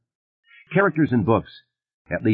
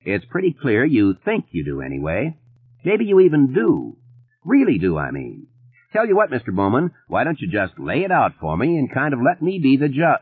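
easy, unhurried Yankee deputy; a relaxed lawman who takes his time; a lightly voiced laid-back deputy; comfortable; 6 semitones higher than usual. A narrator's reading. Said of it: "Ridgewick said comfortably".

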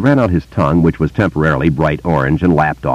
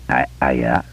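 halting stammer; 4 semitones lower, 5 dB quieter than usual. A narrator's reading. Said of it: "Bill said".

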